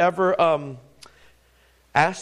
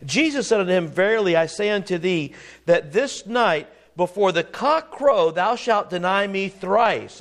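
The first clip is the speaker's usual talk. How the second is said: scripture reading; 3 semitones higher than usual. Acted. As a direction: read the old verses with weight. Reading King James scripture aloud.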